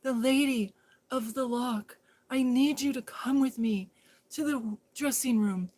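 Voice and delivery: mock royal. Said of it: "It is I, Princess Jeannie".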